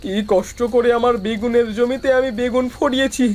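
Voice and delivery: wailing despair over a loss; tearful lament. Acted. Farmer mourning his ruined eggplant field, tearful lament. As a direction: lament as if close to tears. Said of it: "আর কাঁদিস না".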